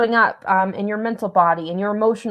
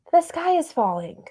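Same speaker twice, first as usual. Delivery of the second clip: mock damsel cry; 6 semitones higher, 5 dB quieter than usual. Damsel voice again.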